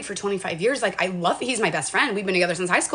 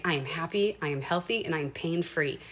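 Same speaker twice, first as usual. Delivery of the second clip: affirmation; 4 semitones lower, 8 dB quieter than usual. Retold or imitated. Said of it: "I start saying".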